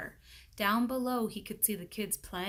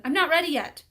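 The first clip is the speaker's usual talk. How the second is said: put-on higher, louder kid voice; kid protesting; 8 semitones higher, 11 dB louder, faster than usual. A narrator's reading. Calvin begs the teacher to wait, high and loud. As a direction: plead for more time.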